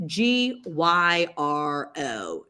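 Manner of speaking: G Y R O, whispered letter by letter; slow whispered spelling of G Y R O. Shown as a demonstration.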